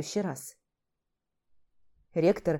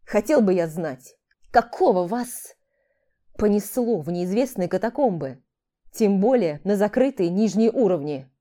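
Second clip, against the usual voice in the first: stern, slightly louder teacher reprimand; 4 dB louder than usual. Acted. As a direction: scold the students firmly. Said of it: "строгим голосом проговорил".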